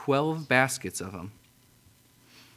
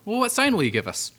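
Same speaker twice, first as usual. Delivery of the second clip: demanding crowd; 9 semitones higher than usual. Acted.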